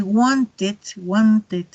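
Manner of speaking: "wanted" drawn out, ending in a separate "it"; neutral ID ending. Shown as a demonstration. Teacher repeats for the class, slow "wanted" with neutral final syllable. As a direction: slowly model both syllables of "wanted". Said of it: "contrastarlo con un sonido más suave".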